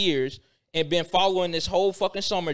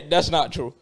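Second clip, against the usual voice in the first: slower, laughing through the words; laughing denial. Real, not acted. Cohost laughs off Taven's claim, slow laughing denial. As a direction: laugh as you deny it again.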